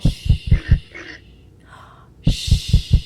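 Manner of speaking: hushed shh; shushing. Acted. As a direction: hush the children. Hushing before opening door.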